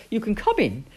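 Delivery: loud, firm captain's warning; calling out. Acted. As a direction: call out terms to a suspect newcomer. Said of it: "he called".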